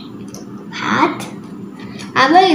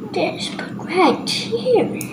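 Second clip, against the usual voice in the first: slow whisper to self; 2 semitones higher, 6 dB quieter, slower than usual. Real, not acted. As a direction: whisper it while concentrating. Muttering while placing piece.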